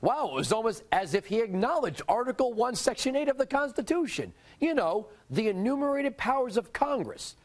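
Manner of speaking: sarcastic, rising into a high pitch; mock amazement. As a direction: feign surprise at an obvious admission. Mock amazement at the president's words.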